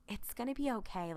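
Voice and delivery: soft, soothing Sam; lightly voiced reassurance amid a struggle; nice Sam voice. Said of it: "nice Sam voice".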